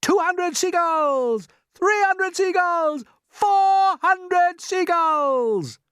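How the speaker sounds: triumphant counting. Acted. James counting gulls triumphantly.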